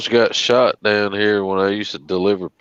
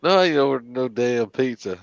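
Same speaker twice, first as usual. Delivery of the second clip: imitating armed homeowner; 4 semitones higher than usual. Homeowner reacting.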